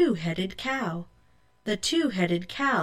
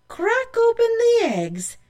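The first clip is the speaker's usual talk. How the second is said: higher, louder eerie warning; ominous cry; 6 dB louder than usual. Acted. Old woman warning Rose, higher and louder. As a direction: warn her with a rising eerie cry.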